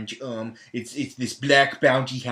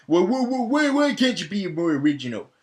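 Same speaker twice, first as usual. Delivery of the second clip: mock exasperation; 5 semitones higher than usual. Mock complaint to the filmmakers.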